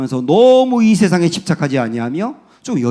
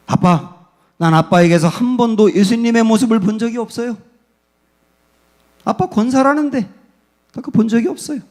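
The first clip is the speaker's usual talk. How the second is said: higher, pleading daughter's cry; a daughter's raised, wounded reproach; hurt daughter's outburst; 6 semitones higher than usual. Retold or imitated. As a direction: throw the words back at her father. Daughter's words haunting the father.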